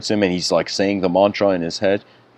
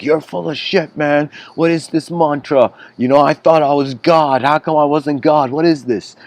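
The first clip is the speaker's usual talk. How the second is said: angry retold complaint; 5 semitones higher than usual. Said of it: "The guy is angry".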